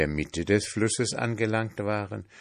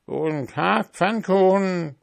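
grunting pig; 11 semitones higher, 4 dB louder than usual. A narrator's reading. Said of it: "grunzte das Schwein".

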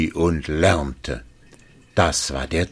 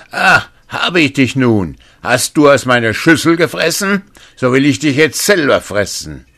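roaring giant, much higher and louder; giant's shout; 9 semitones higher, 8 dB louder than usual. Acted. The first giant roars at the youth who ate from his bowl, booming shout. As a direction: bellow it like a hungry giant. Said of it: "da schrie er".

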